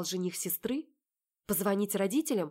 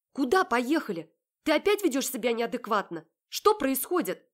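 raised, indignant questions; alarmed protest; 6 semitones higher, 7 dB louder than usual. Acted. Heroine protesting to Marat as he shoves her in the car. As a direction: demand to know what's going on.

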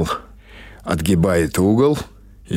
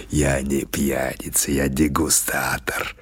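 lower, softer and slow, stressing я; mock-dignified reply; 4 semitones lower, 5 dB quieter, slower than usual. Gavrila correcting baba Pasha, low and dignified. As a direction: answer with lofty dignity. Old man's proud retort.

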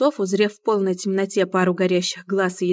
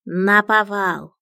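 sighing; 4 dB louder, much slower than usual. Acted. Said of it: "вздохнул Мион".

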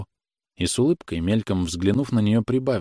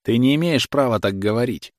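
understated angry retort; mild shout; 3 semitones higher than usual. Acted. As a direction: push back hard, not quite yelling. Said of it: "крикнул Павел".

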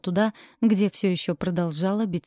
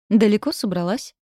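mocking; 2 semitones higher, 4 dB louder than usual. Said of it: "Насмешливый голос Тора".

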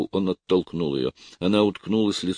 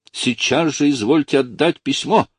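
high, loud order; shouted demand; 9 semitones higher, 6 dB louder than usual. A narrator's reading. Lucy orders him to give the letter, crying out. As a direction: demand it at once. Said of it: "выкрикнула она".

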